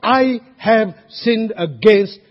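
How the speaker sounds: very slow, earnest confession; slow prayer. Shown as a demonstration. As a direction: pray it out slowly and sincerely.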